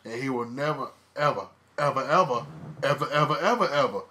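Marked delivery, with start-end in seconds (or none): 1.1-4.0 each "ever" punched, building louder; emphatic repetition. Real, not acted. Insisting to his cohost, each "ever" louder. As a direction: hammer every "ever" harder.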